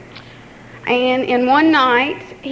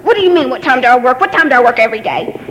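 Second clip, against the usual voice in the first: fast, louder mock snap; snapping mom; 4 dB louder, much faster than usual. Daughter imitating her irritable mom's retort, fast mock snap. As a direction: bite back like an irritated mom. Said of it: "she was just going off on us".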